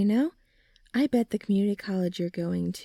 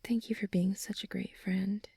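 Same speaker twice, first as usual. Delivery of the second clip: softer, breathy whisper of gratitude; whispered thanks; 7 dB quieter than usual. Acted. Friend thanking buddy after a hug, whispered. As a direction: murmur it close after the hug.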